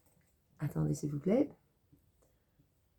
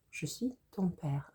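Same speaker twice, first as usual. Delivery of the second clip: softer, whispered Je suis ton père; whispered movie line; 2 semitones higher, 6 dB quieter than usual. Retold or imitated. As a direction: hush the famous line. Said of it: "you will know the line".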